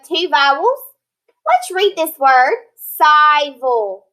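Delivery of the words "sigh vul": long I in the first syllable of "civil"; misread "civil". Shown as a demonstration. Teacher sounding out a word by rule for pupils, mispronounced "civil". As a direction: say "civil" wrongly as SIGH-vul. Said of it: "No, that's not civil".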